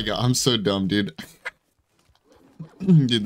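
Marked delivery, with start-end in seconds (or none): 1.2-3.2 laughing. Real, not acted. Laughing at own dumb mistake.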